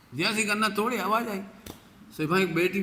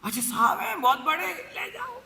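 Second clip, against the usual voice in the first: put-on sweet little girl; 12 semitones higher than usual. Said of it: "जैसे उनकी".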